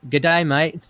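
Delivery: passable amateur Aussie greeting; improved Australian accent. Pretend. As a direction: try a careful Australian "Good day, mate". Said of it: "that was, that was better".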